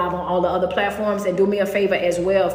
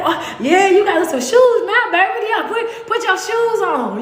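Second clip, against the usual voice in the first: put-on quoting the kids; 9 semitones higher, 3 dB louder than usual. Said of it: "They was like".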